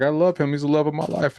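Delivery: high-pitched imitation of a smitten daughter; mock lovestruck gush. Daughter telling her mom about boyfriend, mock gushing.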